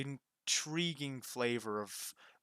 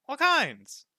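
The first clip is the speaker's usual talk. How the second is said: much higher and louder, ecstatic; squealing boast; 13 semitones higher, 9 dB louder than usual. Acted. Roka ends his gem list in a high ecstatic squeal. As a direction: hit the top of the voice with glee. Roka's boast repeated, peaking.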